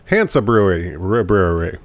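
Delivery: tongue slipping on words. Real, not acted. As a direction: stumble like a tipsy host. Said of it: "What is wrong with me?".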